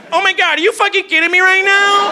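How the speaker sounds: high-pitched mock outraged white-girl voice; white chick. Comic high on Molly reacts to the news, white chick voice. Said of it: "turned me to a white chick".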